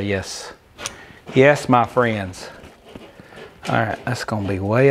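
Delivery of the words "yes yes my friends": slow, low and smug; smug slow reply. Retold or imitated. To his viewers admiring the clamps, slow and smug. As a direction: drawl it like a proud showman. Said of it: "And I'll say".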